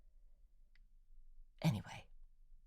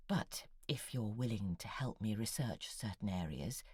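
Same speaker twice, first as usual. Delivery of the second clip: whisper; 3 semitones lower, 8 dB quieter than usual. Acted. Conspiratorial request to a correspondent.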